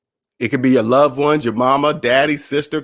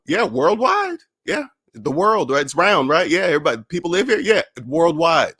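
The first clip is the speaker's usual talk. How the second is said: higher-pitched retort, stating the obvious; matter-of-fact insistence; 3 semitones higher than usual. Retold or imitated. He answers a doubting friend about going worldwide, insistent. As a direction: confirm it as if nothing could be simpler.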